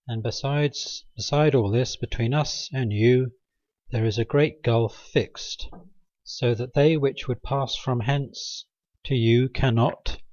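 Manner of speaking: slow, measured reading of a Bible verse; scripture reading. Acted. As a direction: read it out like a passage from the pulpit. Reads Bible passage aloud.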